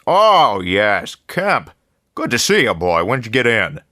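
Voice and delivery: jolly newspaper boss welcoming the new man; effusive editor. A narrator's reading. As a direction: greet him like an old friend with big jolly warmth.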